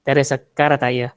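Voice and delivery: "there is a car" in a Madurese accent, ending with a tacked-on "tayo"; Madurese accent English. Shown as a demonstration. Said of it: "Orang Madura". ("there is a car, tayo" dengan logat Madura)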